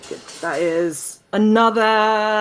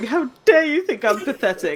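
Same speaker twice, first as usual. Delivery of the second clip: mock words blubbered out, crying and sobbing; 3 semitones higher than usual. Retelling how she reacted, the speaker is imitating someone crying. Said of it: "she's she's crying and going".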